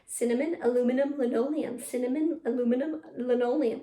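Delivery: brisker tongue twister, words closer together. Shown as a demonstration. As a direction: run it twice in a row, still clear. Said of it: "A little faster".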